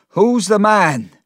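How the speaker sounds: slow, high, furious shout; angry cry. A narrator's reading. Mister Peggotty demands the man's name, angry shout. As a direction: demand it in a loud rage. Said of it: "he was very angry".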